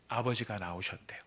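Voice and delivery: hushed, secret-telling whisper; emphatic whisper. Shown as a demonstration. Preacher whispering the key phrase to the congregation. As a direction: whisper the line to make it land. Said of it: "이 말을 강조하고 있습니다".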